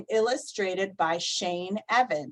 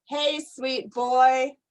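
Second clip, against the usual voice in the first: cooing; 2 semitones higher, slower than usual. Acted. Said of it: "my mom coos".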